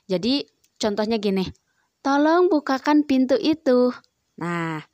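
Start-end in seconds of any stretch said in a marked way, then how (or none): 2.0-4.0 a courteous, gentle ask with tolong; polite request. Shown as a demonstration. Teacher showing pupils the polite way to ask, courteous. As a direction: ask nicely, no edge in the voice. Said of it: "Mengucapkan kalimat perintah harus dengan sopan".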